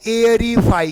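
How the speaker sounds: एरीफाई starting on an "ay" sound; AER read as "ay-r". Shown as a demonstration. Teacher models AE before R, एरीफाई opening on "ay". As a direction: say एरीफाई with AE as "ay", not ee. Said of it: "ए ई का उच्चारण ए हो जाता है".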